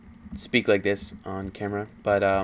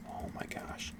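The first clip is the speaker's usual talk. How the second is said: under her breath; 16 dB quieter, slower than usual. Real, not acted. Exasperated aside while telling story.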